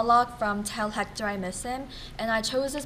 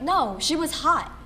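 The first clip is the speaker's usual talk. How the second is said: raised, insistent self-contradiction; higher and emphatic, drawn out at the end; emphatic self-correction; 5 semitones higher, slower than usual. Acted. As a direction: burst in, overruling your own thought. Acted argument with herself.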